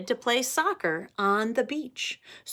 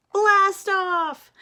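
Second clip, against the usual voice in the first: excited shout; 10 semitones higher, 6 dB louder than usual. Acted. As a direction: blast off! shouted high and loud. Countdown climax.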